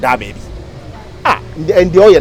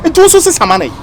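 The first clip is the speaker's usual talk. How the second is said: higher, louder pleading rise; pleading cry; 9 semitones higher, 3 dB louder than usual. Acted. Wife pleading with her husband to change, loudly and higher. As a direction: push the plea up, almost crying out.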